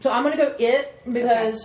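talking through a mouthful of chocolate; words round a bite of chocolate; chewing while talking. Real, not acted. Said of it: "sorry, I'm chewing on chocolate".

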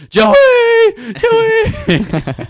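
loud high call up the stairs. Retold or imitated. Friend calling Joey from downstairs, loud high shout. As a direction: shout the name across the house.

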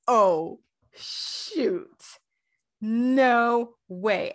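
overwhelmed fangirl disbelief; stunned squeal. Retold or imitated. Fan reacting to the giggling, whisper then squeal. Romance scene fades.

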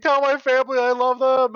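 high, pleading dying soldier; wounded soldier gasping. Retold or imitated. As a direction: beg with last breath, mock-tragic. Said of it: "They're basically saying".

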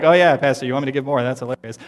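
mock sarcastic scoff at the pastor. A member mocking the pastor's call to give, sarcastic. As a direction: roll your eyes at the request. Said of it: "not in a sarcastic way".

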